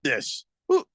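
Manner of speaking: high, loud, stammering bafflement; incredulous disbelief. Retold or imitated. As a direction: squawk in hammed-up disbelief at the result. Acts out baffled viewers' reaction.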